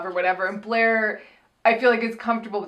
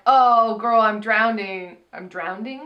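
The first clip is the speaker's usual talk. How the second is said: mock drowning; slower than usual. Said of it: "maybe it was more like".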